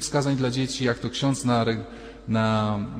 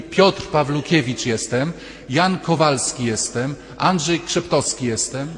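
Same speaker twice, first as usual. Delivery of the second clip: louder, slow, each name announced; loud introductions; 2 semitones higher, 4 dB louder than usual. Retold or imitated. Men introducing themselves loudly in diction class. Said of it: "Proszę powiedzieć głośno".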